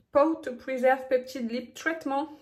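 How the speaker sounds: put-on playful English accent on the product name; lightly hammed-up English accent. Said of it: "J'aime bien prendre mon accent".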